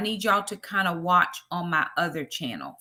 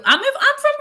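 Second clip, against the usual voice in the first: excited exclaim; 7 dB louder than usual. Real, not acted. Excited viewer is from Brooklyn.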